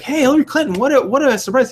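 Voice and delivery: imitating Fallon. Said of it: "he's like".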